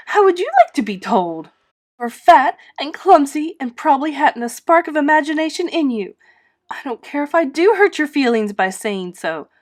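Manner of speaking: acted girl's tantrum peaking in a yell; furious child. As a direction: build to the final never. Anne rages at Rachel.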